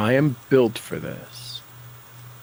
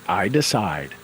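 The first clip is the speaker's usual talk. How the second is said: matter of fact; 3 semitones lower than usual. Shown as a demonstration. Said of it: "kind of as a matter of fact".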